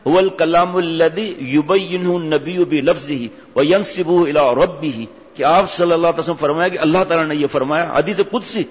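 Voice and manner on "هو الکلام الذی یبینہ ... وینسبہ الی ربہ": slow recitation. Acted. Arabic definition recited.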